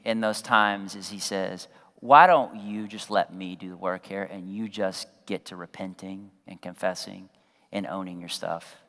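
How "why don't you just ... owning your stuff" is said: low, slightly softened counsel; a touch of quiet, patient correction; lightly voiced Holy Spirit. Holy Spirit correcting the husband, mildly hushed and low.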